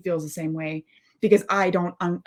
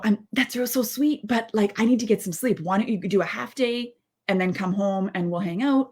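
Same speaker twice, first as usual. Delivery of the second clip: higher, lightly sweet voice; sweet, gentle suggestion; 3 semitones higher than usual. Pretend. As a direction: ask it kindly while still tired. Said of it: "instead of saying".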